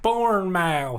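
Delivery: Bournemouth as two full words, "born-MOUTH"; American pronunciation. Shown as a demonstration. Friend supplies the American reading of the town, American pronunciation. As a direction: say Bournemouth with a drawn-out "mouth" at the end. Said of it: "pronouncing it with an American accent".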